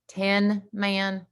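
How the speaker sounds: "ten-man" carefully repeated, TEN clear; clarified "ten-man". Shown as a demonstration. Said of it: "That would be the number ten".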